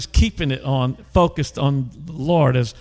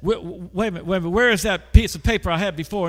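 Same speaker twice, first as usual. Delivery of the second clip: flustered clerk; 4 semitones higher, faster than usual. Retold or imitated. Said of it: "She got all confused".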